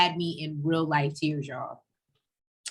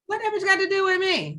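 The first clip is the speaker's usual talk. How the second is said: sassy mock shout, much higher; mock outraged shout; 11 semitones higher than usual. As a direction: act out her fury, playfully over the top. Co-host voicing Monique's outrage.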